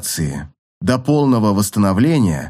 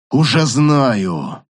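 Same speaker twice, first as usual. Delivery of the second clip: slow booming shout; thunderous voice; 2 semitones higher, much slower than usual. Acted. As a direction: boom it out like a thundering emperor. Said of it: "ответил громоподобный голос".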